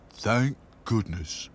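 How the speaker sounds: slow, drawn-out doll voice; relieved Sad Sack. A narrator's reading. Sad Sack agreeing with Dotty, relieved. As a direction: draw it out in relief.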